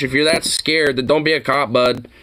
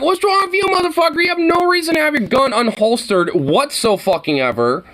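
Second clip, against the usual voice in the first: mock cop voice; 10 semitones higher than usual. Parodying the cop's question.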